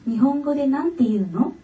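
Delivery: a calm read-aloud of her own essay. Acted. (自作の作文を朗読する)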